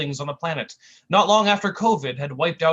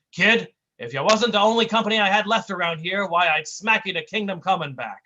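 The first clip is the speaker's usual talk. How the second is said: tough guy threat; 4 semitones higher, 5 dB louder than usual. Acted.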